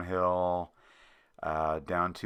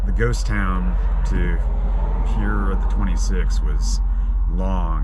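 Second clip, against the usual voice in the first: road noise; 11 dB louder than usual. Real, not acted. Recorded from moving vehicle.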